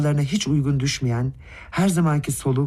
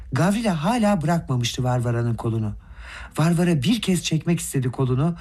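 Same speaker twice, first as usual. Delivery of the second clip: plain reading voice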